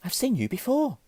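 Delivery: Harry. A narrator's reading. Boy recognises an admirer, piping up. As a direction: pipe up in recognition. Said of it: "said Harry".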